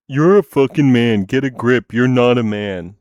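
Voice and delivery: loud, mocking insult; angry yell. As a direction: spit it out like an angry troll. Quoting hostile commenter, acted.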